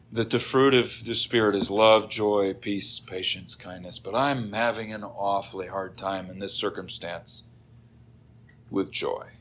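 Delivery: low, softened praying voice; earnest prayer. Acted. Believer admitting a hard time to the Lord, earnest prayer. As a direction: confess the struggle quietly to God.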